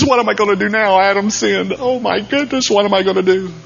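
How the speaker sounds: high, loud mock-panicked God; hammed-up panicky God, high and loud. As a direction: play God flustered and frantic over Adam. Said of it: "God went into panic".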